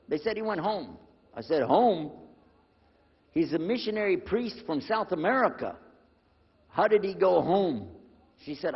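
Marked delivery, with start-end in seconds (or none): 1.6-7.9 taken aback, demanding an explanation; retold disbelief. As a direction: question it in mild disbelief. Retold shocked questioning of staff.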